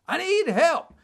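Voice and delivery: high, sing-out parroting; high-pitched copycat call for help; mocking mimicry. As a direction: imitate a stranger echoing your cry. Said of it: "he starts mimicking me".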